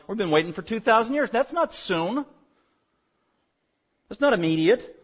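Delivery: lightly voiced doubting critic, rising near the end; a touch of a scoffing skeptic objecting; mock skeptic. Preacher voicing critics who scoff at prophecy, mildly mocking. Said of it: "some people knock that and say".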